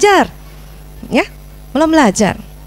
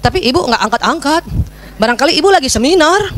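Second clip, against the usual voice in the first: put-on child explaining. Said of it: "Udah ngomongnya gitu kan".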